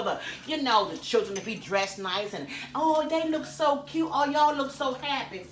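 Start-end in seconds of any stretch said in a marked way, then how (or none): 2.7-5.5 gushing onlooker. Retold or imitated. Mimicking people admiring a couple, high mock coo. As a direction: imitate a passerby fawning over a family.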